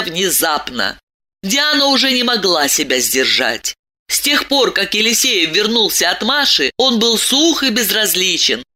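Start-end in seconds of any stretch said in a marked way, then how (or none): none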